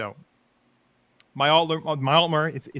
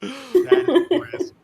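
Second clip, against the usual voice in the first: laughing; 14 semitones higher, 7 dB louder, much slower than usual. Real, not acted. Laughing at story.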